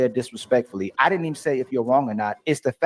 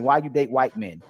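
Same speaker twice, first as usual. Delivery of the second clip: bad-faith example. Shown as a demonstration. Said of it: "If I'm saying it in bad faith".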